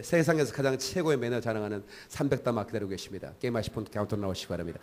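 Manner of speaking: mock billiard hall announcement, a touch quick; lightly voiced billiard hall announcer, quick. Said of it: "아나운서 멘트".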